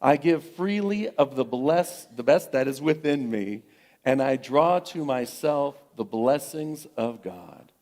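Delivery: slow solemn communal recital; group affirmation. Real, not acted. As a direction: lead the congregation in affirming. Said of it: "affirm that with me together".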